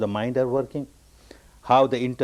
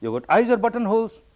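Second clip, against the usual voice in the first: higher-pitched mock shout, no real volume; mild mock yell, pitched up; retold shout; 6 semitones higher than usual. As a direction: imitate an indignant shouter without really yelling. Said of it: "he shouts the same language".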